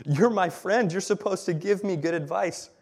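high, loud, disbelieving outburst at a friend; David protesting his friends' advice to flee; incredulous friend. Acted. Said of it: "this is my translation".

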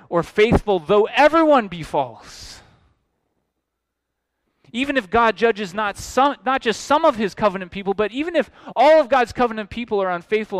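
loud, building preacher's climax; preaching at full force. Real, not acted. Preacher thunders to his congregation that God stays faithful, loud. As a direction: drive the point home, full voice.

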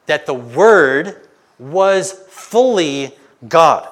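"fully" leaned on, loud and slow; preacher hammering home "fully"; stress on fully. Shown as a demonstration. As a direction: press hard on "fully" in a slow, loud line. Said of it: "This emphasizes their full equality".

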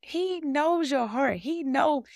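preaching emphasis. Real, not acted. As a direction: proclaim it.

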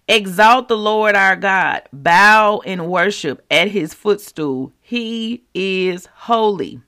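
reverent reading. Acted. Reading scripture slowly, reverently.

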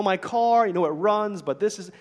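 acted grumble, starting high and loud; mock grievance; complaining. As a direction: play a complainer mid-rant. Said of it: "if you're always complaining".

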